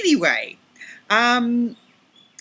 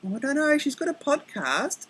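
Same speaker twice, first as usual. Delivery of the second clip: imitating Leslie; 10 semitones higher, 3 dB louder than usual. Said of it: "And Leslie's going".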